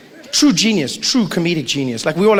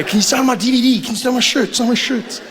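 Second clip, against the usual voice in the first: eager fan; 8 semitones higher than usual. Retold or imitated.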